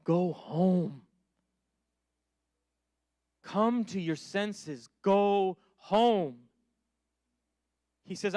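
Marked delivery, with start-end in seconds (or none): 0.0-6.5 a light hint of a donkey, slow on senses. Preacher as the donkey urging the listeners, lightly voiced. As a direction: lightly put on the donkey's plea. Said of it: "in my most donkey voice available".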